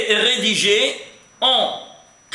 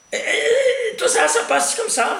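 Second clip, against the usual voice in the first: laughing. Real, not acted. Teacher laughs while explaining.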